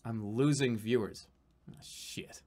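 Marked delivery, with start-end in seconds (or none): 1.7-2.4 a quiet dismayed aside; hushed "Ah, shit"; whispered curse. Real, not acted. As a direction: whisper it under his breath. Notices he is losing viewers.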